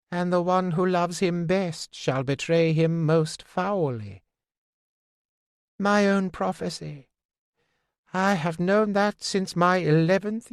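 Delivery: the fool, pitched high, bitter at himself; high fool's voice. Acted. Fool confessing to Fitz, a high bitter voice. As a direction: jester owning a dark prophecy.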